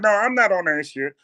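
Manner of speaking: high, loud denial; heavy girlfriend voice. Acted. Girlfriend denying she thinks about food, high voice. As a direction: deny it in her heavy voice. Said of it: "she got a heavy voice".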